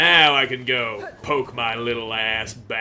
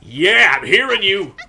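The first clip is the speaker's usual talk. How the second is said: excited shout; 8 dB louder than usual. Real, not acted. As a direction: call out to the trapped flea. Finds flea.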